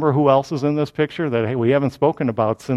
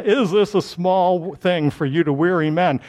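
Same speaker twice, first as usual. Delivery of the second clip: formal, authoritative challenge; lightly put-on orator's voice; official baritone voice. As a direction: pronounce it like an official spokesman. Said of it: "to sound very official and".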